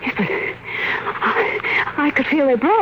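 whispered, halting terror; breathless fear. Acted. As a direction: barely get the words out. Wife shaken after the attack.

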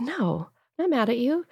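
soothing whisper. Retold or imitated. Mom whispering reassurance to her daughter at bedtime, soft whisper. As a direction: whisper it back gently. Mother answering child at bedtime.

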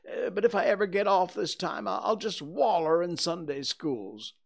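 high, loud, self-blaming lament; a boy bewailing his own wickedness; remorseful boy. Acted. Tom regrets playing hooky, lamenting.

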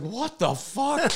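slow, laughing what the fuck; laughing disbelief. Retold or imitated. Teller stunned after the brawl, laughing. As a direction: drag it out in amused shock.

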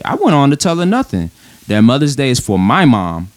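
heated, emphatic reading of the post; leaning on each point like he's already upset; indignant, pointed read-aloud; emotional read. Shown as a demonstration. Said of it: "read it in a sensitive tone".

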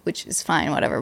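speaking low and soft; dropped to a quiet murmur. Real, not acted. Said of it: "Why are you whispering?".

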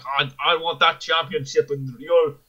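lightly put-on accent, voice rising on the accusations; mock wrestler's challenge in a rough attempt at an accent; Drew. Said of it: "I like how all my accents suddenly devolve".

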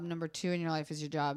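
deadpan joke repetition. Shown as a demonstration. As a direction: drop it down for the gag. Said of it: "I joke that".

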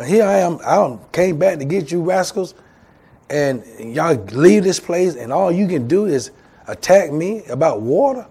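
acted frustration. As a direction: lightly play a leader at his wits' end. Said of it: "That's frustration".

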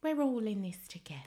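soft breathy whisper. Pretend. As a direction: whisper it like a secret. Mock solemn whisper.

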